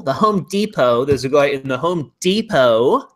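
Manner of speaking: "Depot" with a long ee, DEE-po; American pronunciation. Shown as a demonstration. Host shows off the American name, "Depot" as DEE-po. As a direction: stretch the first syllable of "Depot" to DEE. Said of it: "or as Americans say".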